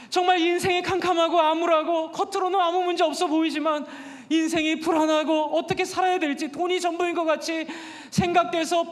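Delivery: impassioned sermon delivery; preaching. Acted. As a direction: urge the congregation to love their neighbors. (열정적인 설교)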